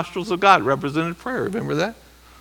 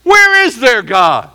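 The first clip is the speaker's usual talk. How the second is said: louder, higher, slow mock challenge; scoffing neighbor; 8 semitones higher, 6 dB louder, slower than usual. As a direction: taunt them like a doubting neighbor. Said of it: "a neighbor says".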